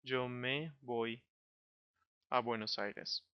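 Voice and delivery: "Yo me voy" said slowly and deliberately, "me" kept distinct; slow it down to show "me"; slow model sentence. Shown as a demonstration. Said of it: "I would be saying".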